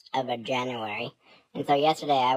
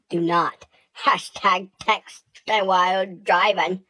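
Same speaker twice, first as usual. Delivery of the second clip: slow, loud, mock-serious PSA voice; mock stern warning; 4 semitones higher, 5 dB louder, slower than usual. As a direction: lay down the rule like a safety ad.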